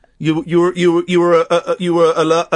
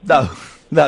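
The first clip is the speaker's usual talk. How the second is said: laughing no, no; hearty relishing laughter; 4 semitones lower than usual. Real, not acted. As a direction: chuckle through the denial.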